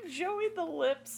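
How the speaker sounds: breathy whisper of the name; whispered echo. Pretend. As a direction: savor the nickname in a whisper. Echoing the mob nickname.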